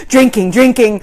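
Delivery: put-on breathless toddler chant. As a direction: say it like a gulping toddler. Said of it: "stop and go".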